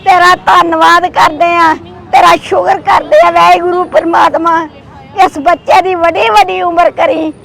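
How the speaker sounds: earnest blessing prayer, steady chant-like flow; heartfelt prayer. Real, not acted. (ਅਰਦਾਸ ਕਰਦੀ ਆਵਾਜ਼)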